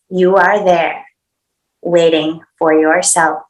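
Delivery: slow, measured reading in separate phrases; inspirational quote reading. Acted. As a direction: let each image land with a pause after it. Reads inspirational quote aloud.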